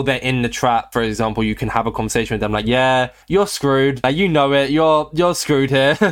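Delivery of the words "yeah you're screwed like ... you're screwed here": drawn-out, slightly raised gloating taunt; mock taunt. Trapper talking to his trapped victim, mock taunting. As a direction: slowly rub it in, playfully.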